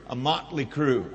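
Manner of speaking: low, softened aside; mock whisper. Preacher wanting to prompt the prophet, in a mock whisper. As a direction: drop it down as if into someone's ear. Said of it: "reach over and whisper".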